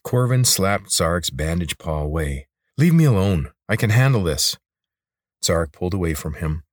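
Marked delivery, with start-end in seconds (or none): 2.8-4.6 mildly angry, pitch slightly lifted; irritated rebuff. Acted. Corvin rebuffs the lizard's help, irritated. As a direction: push someone off with a touch of temper.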